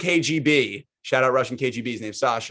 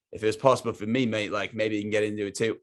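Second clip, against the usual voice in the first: attempted British accent; 3 semitones lower, 4 dB quieter than usual. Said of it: "Every time I try to go British".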